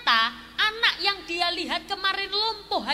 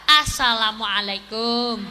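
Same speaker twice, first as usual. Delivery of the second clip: low, slow, louder salaam; louder call; 6 semitones lower, 6 dB louder, slower than usual. Retold or imitated. The thug calls again at the door, louder. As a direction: call it again, more insistent.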